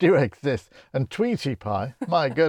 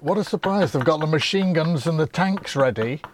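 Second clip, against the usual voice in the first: higher mock-cheery soldiers' voice; sarcastic soldiers; 4 semitones higher than usual. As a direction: ham up delighted soldiers, sarcastically. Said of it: "all the soldiers say".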